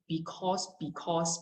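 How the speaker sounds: "because" with a full "aw" in the second syllable; unnatural "because". Shown as a demonstration. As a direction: say "because" as "bee-kawss". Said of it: "I don't really say".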